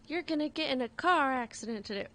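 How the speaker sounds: put-on light, uncertain stab at a southern accent; attempted southern accent. Psychic predicting dad's car accident, attempted southern accent. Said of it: "Or a southern accent, I can't do a southern accent".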